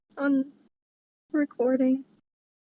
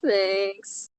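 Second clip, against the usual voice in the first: weird Smeagol voice; 2 semitones lower than usual. Acted. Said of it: "bring out my weird voice".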